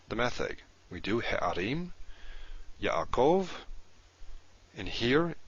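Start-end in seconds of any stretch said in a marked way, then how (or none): 1.2-1.9 he'arim with a break after he; he'arim said slowly, split after the first syllable. Shown as a demonstration. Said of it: "we have a syllable break after". 2.8-3.5 Yaakov with a break after Ya, higher pitched; syllable break. Shown as a demonstration. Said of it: "we have a syllable break after".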